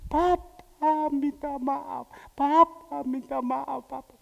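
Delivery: slow, rising plea for forgiveness; earnest pleading. Retold or imitated. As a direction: beg forgiveness with the whole voice. Child pleading, louder.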